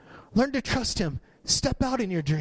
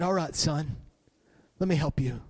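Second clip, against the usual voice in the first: gentle voice of God; 2 semitones lower than usual. Retold or imitated. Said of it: "God spoke to me so, so tenderly".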